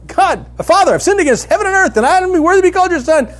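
high, loud, rushed plea from a shamed son; son blurting his speech. Acted. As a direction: blurt out the rehearsed confession in one breath. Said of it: "he launches into his speech".

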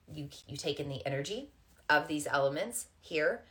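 repeats words with a stutter; stumbling stutter on the first word. Real, not acted. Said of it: "and I'm stuttering here".

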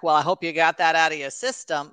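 lightly put-on weird accent for a retold father; a hint of an odd accent, imitating dad; Groucho Marx accent. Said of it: "I don't know why I'm talking like that".

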